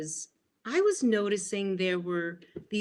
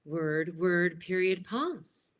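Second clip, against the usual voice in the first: even "word, word, period", then "pause" lifting upward; measured script-reader beats with a rising "pause"; trained broadcast cadence; slower than usual. Shown as a demonstration. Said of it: "people tend to speak in those cadences when they're trained".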